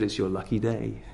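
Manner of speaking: softly voiced, half-whispered confidence; retold whisper. Check-in agent to waiting couple, lightly imitated whisper. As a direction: drop the volume as if sharing a secret. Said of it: "and he whispered".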